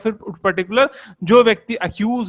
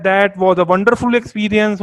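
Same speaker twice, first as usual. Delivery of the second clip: very slow, each word spaced; slow example read; 3 dB louder, much slower than usual. Shown as a demonstration. Teacher reading an example sentence slowly to the class. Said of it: "इस तरह के example है".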